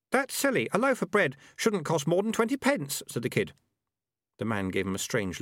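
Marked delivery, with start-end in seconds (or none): 0.1-3.0 put-on higher-pitched voice of a kid; high kid voice, protesting; worried kid. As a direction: object as a young kid, pitched up.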